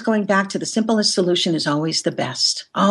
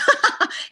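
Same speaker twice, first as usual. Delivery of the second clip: a quick unvoiced giggle; quick voiceless chuckle; breathy laugh. Real, not acted. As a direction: let a breathy giggle slip. Laughs mid story.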